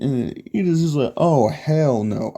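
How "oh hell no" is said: slow, drawn-out refusal; indignant denial. Retold or imitated. Ida shoots down the classmates' suspicion, indignant denial. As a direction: stretch it out in mock indignation. Ida rejects the guys' suggestion.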